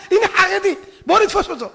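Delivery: high, loud gleeful predator voice; cackling hyenas. Acted. Hyenas to each other on spotting prey, cackling loudly. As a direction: shout it through a high cackle.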